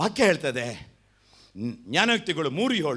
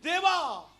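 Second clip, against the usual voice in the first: higher, softer imitation of a whining believer; mock complaining prayer; 8 semitones higher, 5 dB quieter, slower than usual. Preacher mimicking a believer demanding blessings, mock whine. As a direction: lightly mimic a grumbling prayer to God. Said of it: "ನಾವೇನ್ ಮಾಡ್ತೀವಿ?".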